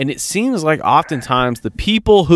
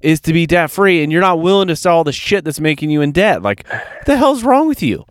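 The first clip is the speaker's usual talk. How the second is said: rising, fed-up retold rant that peaks higher; mock exasperation, telling her off; exasperated rant; 4 semitones higher than usual. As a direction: vent at her like you've lost patience. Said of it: "And I'm like".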